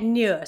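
"near" said slowly as Valleys "nyur"; slow Welsh "near", like "nyur"; Welsh Valleys vowel. Shown as a demonstration. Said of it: "they will change near to near".

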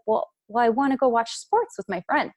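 mock-frustrated husband. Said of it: "he gets really frustrated".

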